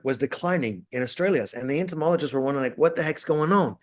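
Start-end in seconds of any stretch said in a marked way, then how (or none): 2.8-3.8 lightly put-on Australian accent. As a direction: ask it with a hint of an Australian accent. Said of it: "that was my Australian accent".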